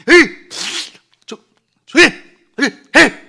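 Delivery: sharp loud shout of hush up; crowd scolding. Retold or imitated. The crowd yelling at the blind man, loud angry hush. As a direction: bark at him to shut up. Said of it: "집단적으로 꾸짖는 거예요".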